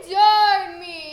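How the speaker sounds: Endured drawn out slowly and sung; stress on Endured. Shown as a demonstration. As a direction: stretch Endured me like a coach. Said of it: "teacher models the line".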